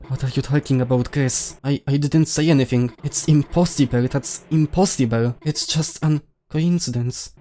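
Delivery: lightly acted panic, insisting nothing was said; flustered game character. Character denies having said anything.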